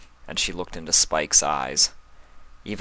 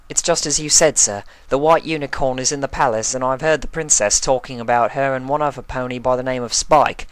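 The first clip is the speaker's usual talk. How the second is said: higher, louder hurried report; spy figure; 7 semitones higher, 4 dB louder, faster than usual. Acted. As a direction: rush the secret news to the boss.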